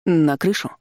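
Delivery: usual speaking voice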